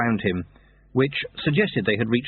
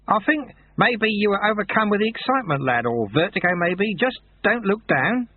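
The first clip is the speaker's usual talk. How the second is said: lightly voiced kindly old sweeper, higher; calm the boy gently; old monk, reassuring; 10 semitones higher than usual. Old sweeper reassures the dangling boy, lightly voiced kindly.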